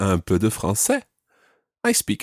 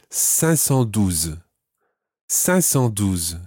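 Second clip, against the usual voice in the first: slow model pronunciation; much slower than usual. Shown as a demonstration. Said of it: "five hundred and twelve".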